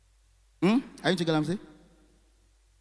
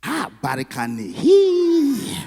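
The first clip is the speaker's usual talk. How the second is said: mock South African flirt; 6 dB louder, much slower than usual. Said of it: "I was like".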